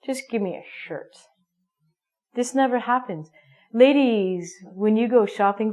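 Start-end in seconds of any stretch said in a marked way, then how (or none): 0.0-1.2 careless shopper. Acted. Mock shopper who doesn't care.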